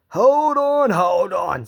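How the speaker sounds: high, loud panicked hold on; alarmed plea. Acted. Fat Controller pleading with angry passengers, panicked and loud. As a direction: stop them fast, voice leaping up.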